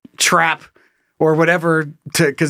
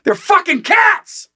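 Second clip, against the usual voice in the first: exasperated shout; much slower than usual. Retold or imitated. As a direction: drag it out in disbelief. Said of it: "It's like".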